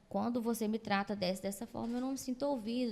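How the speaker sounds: calm, level rephrasing; calm I-statement. Shown as a demonstration. Partner voicing hurt without attacking, calm and level. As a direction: say how you feel without blaming. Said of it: "Você acha que é brigando".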